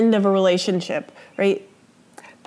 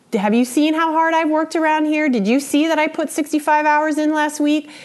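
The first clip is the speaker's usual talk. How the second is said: higher, scornful one-upping rant; contemptuous partner; 6 semitones higher than usual. Shown as a demonstration. Teacher acting out a partner's contempt, higher and scornful. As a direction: lord your workload over them. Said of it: "your partner said something to you like this".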